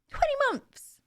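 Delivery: high excited shout. Real, not acted. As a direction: squeal the milestone with delight. Excited thanks for a sub.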